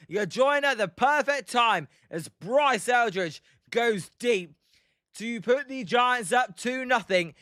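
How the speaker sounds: excited baseball play-by-play call, drawn-out stresses. Acted. Telling viewers the Giants are up two nothing, play-by-play. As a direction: call the home run for the stream. Live play-by-play of home run.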